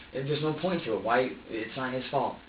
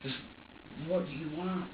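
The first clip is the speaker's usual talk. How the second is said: frustrated pleading; 3 semitones higher, 7 dB quieter than usual. Retold or imitated. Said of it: "More frustration".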